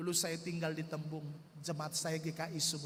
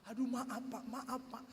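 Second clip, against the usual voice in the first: softer, pleading apology; fearful apology; 3 semitones higher, 5 dB quieter than usual. Retold or imitated. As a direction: beg the angry man timidly. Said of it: "Dalam keadaan takut". (permohonan maaf yang takut dan lirih)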